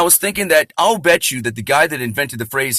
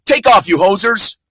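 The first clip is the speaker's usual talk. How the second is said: slow, louder Canadian "Take off, you hosers"; mock Canadian accent; 6 semitones higher, 5 dB louder than usual. Comic showing how Canadians talk, mock Canadian accent. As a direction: drag out "Take off" like a movie Canadian. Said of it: "That's how they talk".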